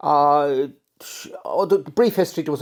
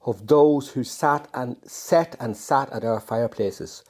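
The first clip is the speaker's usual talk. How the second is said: poetry reading; 2 semitones lower than usual. Acted. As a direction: savour each image as you read the poem. Reads his own poem aloud.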